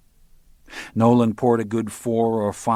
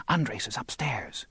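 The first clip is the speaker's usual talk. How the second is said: slow, hushed warning whisper; 2 semitones higher, 6 dB quieter, slower than usual. Acted. Mary warns Moran on the phone, slow whisper. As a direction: breathe it so Andres can't hear. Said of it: "Her voice came as a whisper now".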